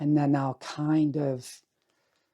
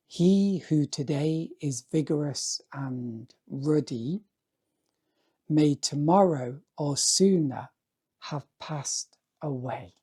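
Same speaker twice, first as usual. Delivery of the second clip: poetic voice like Seamus Heaney. Acted. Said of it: "read it with a poetic voice, like Seamus Heaney".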